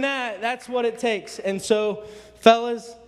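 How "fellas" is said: loud call of "fellas". Real, not acted. Preacher rallying the men of the church, loud call.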